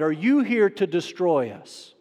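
slow, drawn-out accusing question. Retold or imitated. Demon-possessed man confronting Jesus, slow outburst easing off. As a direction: end of a blurted challenge, drawn out. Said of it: "blurts out at the top of his lungs".

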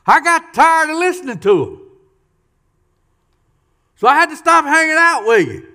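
rising, forceful pulpit emphasis; preaching loudly. Real, not acted. Preacher to congregation, loud and emphatic. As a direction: drive the point home loud and high.

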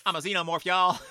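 loud, playful Texan twang; Texan accent. Acted. Little alien introducing itself to the crew, Texan accent. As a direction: echo the alien in big Texan. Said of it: "this little Texan accent comes out".

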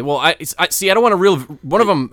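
blurting it out too loud; excited yelling. Real, not acted. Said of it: "Yelling into the mic".

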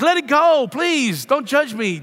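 mock plea. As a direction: beg them to let it slide, tongue in cheek. Begging the congregation.

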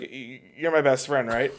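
slow, stumbling retold question; hesitant. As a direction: replay stalling for time, drawn out. Retelling his stalling before proposing.

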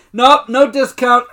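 high, loud, drawn-out mock refusal; retold freak-out. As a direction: imitate a man freaking out. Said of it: "Clark freaks out".

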